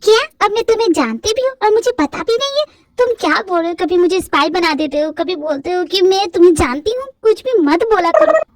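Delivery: put-on high girlish annoyed voice; exasperated heroine. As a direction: scold him in disbelief. Heroine argues with boss.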